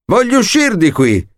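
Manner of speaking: a trapped girl's mock shriek. A narrator's reading. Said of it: "E lei strillava". (strillo acuto)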